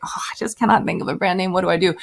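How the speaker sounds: a lightly whiny, helpless voice; hammed-up brand-name despair; mock despair. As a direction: play up being stuck for a name.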